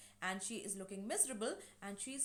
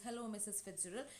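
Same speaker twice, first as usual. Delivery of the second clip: softer, understated sad greeting; mildly miserable; 5 dB quieter than usual. Retold or imitated. Miserable daughter greeting the neighbour, mildly sad. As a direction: imitate a dejected hello, quietly. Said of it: "in a very sad, miserable manner".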